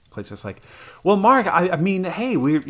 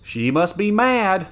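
higher, louder, slow disbelieving cry; stunned wounded soldier; 8 semitones higher, 5 dB louder, slower than usual. Acted. Wounded young soldier reeling at his queen's betrayal, stunned cry. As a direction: say it like you can't believe what you saw. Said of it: "he repeated again and again".

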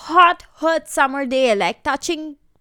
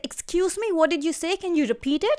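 mock polite challenge; 3 semitones higher, 3 dB quieter than usual. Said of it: "I'm always like".

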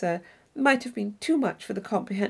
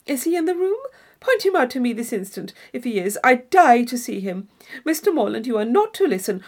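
lightly voiced excitable young lady, louder; breathless society gush; gushing Isabella; 5 dB louder than usual. Isabella gushing to Catherine about the Tilneys, excited.

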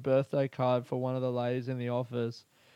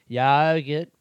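louder mock Aboriginal accent; one word in a put-on Aboriginal accent; imitated Aboriginal accent; 7 dB louder than usual. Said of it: "the Aboriginal voice".

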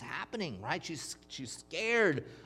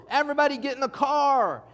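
higher, louder mock panic call; imitated urgent shout; retold yell; 8 semitones higher, 7 dB louder than usual. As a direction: order everyone to the car in alarm. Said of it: "they start yelling out".

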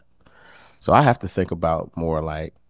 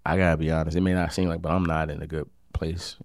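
honest, gentle; 4 dB quieter than usual. Shown as a demonstration. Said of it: "but be like".

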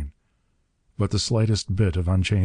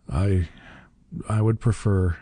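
halting, dully resigned request; falter, then ask without much spirit; dull. A narrator's reading. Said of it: "he said dully".

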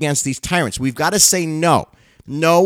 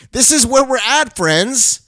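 yelling; 8 semitones higher, slower than usual. Real, not acted. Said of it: "And I don't mean to yell at you".

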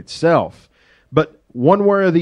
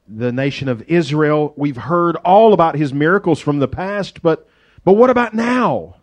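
doubtful scoff. Retold or imitated. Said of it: "he says, and I paraphrase".

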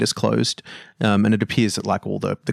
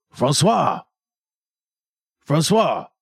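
yelling a name; 8 semitones higher, slower than usual. Acted. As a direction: shout the name up at the closed windows. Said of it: "he sort of yells out".

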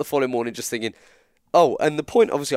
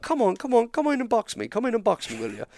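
high, goading Irish taunt, lightly voiced; Irish accent; 9 semitones higher than usual. Traveller goading the wrestler into the ring, a hint of Irish accent. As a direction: egg him on in a hint of Irish. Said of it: "the accent".

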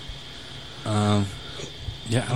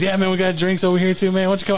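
party guy voice; 7 semitones higher than usual. Retold or imitated. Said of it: "he goes".

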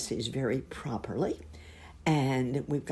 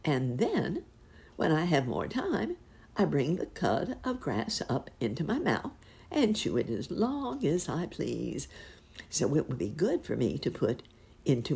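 lightly voiced cow lady. Cow lady explaining her cud to Uncle Wiggily.

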